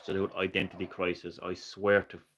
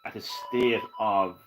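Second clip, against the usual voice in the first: lightly put-on politician's address; slow, deliberate mock campaign speech. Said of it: "some kind of, like, video game politician".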